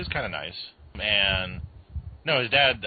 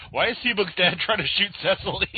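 confused; 11 semitones higher, 3 dB louder than usual. Retold or imitated. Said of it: "I was like".

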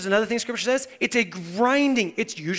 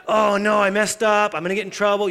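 mock dread; 7 dB louder than usual. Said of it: "most of you are like".

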